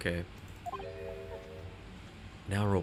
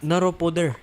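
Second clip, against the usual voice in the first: Naro Poder with P for F; Filipino accent; 5 semitones higher, 4 dB louder than usual. Shown as a demonstration. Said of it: "Copy me, copy me".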